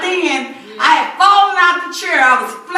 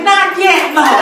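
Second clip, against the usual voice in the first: loud plea; 2 semitones higher, 6 dB louder, slower than usual. Retold or imitated. Retold plea during seizure.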